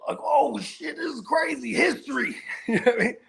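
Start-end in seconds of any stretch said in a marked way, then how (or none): 0.2-2.4 excited awe. Retold or imitated. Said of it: "Touching on it like".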